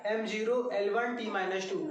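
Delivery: एम ज़ीरो एल वन टी माइनस टू read as plain numbers; counting form reading. Shown as a demonstration. Teacher showing students how to read dimensions, counting numbers. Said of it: "इसको हम counting form में पढ़ते हैं".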